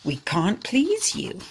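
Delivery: slow, breathy, mild cry of giving up; a hint of despair, slowed down; cried. Thirsty villagers giving up, mild slow cry. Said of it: "the people cried".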